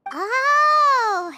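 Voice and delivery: surprised oh. Acted. Sudden realization about the flowers.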